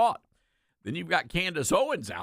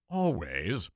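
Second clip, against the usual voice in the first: ALWAYS lower and drawn out, set apart by pauses; emphatic repeat; 6 semitones lower than usual. Real, not acted. Host repeating it to drive the point home, stress on ALWAYS. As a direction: land a deep, deliberate ALWAYS. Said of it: "may I say this again".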